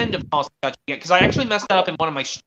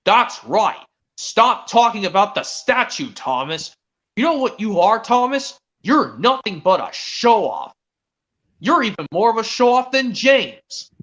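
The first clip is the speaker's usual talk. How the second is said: scolding Gordon; 4 semitones higher, 4 dB louder, slower than usual. Pretend. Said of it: "Gordon was like".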